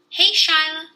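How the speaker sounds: calling out loud and high. Acted. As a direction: call her name across the rocks. Peter calls out to Shyla.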